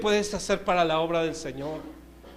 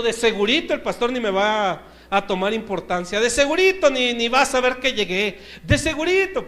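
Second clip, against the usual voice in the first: grumbling; 2 semitones higher, 3 dB louder than usual. Retold or imitated. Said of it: "refunfuñando".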